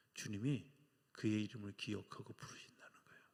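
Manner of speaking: hushed, breathy emphasis; whisper. Real, not acted. Pastor whispering to the congregation, hushed emphasis. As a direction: drop to a whisper for the point.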